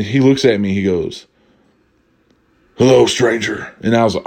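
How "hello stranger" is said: lightly voiced Batman; a hint of caped-hero voice. Batman greets the shopper who spoke to him, lightly imitated Batman voice. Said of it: "this dude's talking in a Batman voice".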